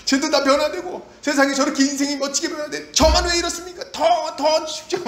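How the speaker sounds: high, insistent begging prayer; earnest pleading. Acted. Believer begging God for the same grace as others, pleading. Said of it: "더 간절히 나가야죠".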